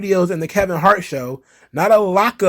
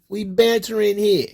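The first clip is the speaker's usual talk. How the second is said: a hint of a put-on joker voice; mock banter voice; 5 semitones higher than usual. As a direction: repeat it in a higher, put-on tone. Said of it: "Come on, it's jokes".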